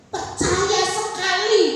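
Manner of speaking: slow, loud and firm; firm slow loud declaration of faith. Retold or imitated. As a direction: state it firmly and slowly. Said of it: "keras, mantap".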